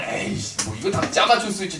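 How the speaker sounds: muttered scoff, half under breath; a skeptic waving it away; dismissive scoff. Retold or imitated. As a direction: brush it off with a quiet sneer. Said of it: "저 딱 그렇게 생각할 거예요".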